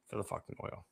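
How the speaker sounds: breathy whisper of a punchline; muttered conspiratorial aside. Real, not acted. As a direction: drop to a whisper for the kicker. Aside, unvoiced drop.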